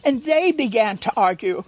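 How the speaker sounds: measured read-aloud with pauses between phrases; gently paced storybook reading; story narration. A narrator's reading. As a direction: read it like a fable to a listening room. Reads a picture book aloud.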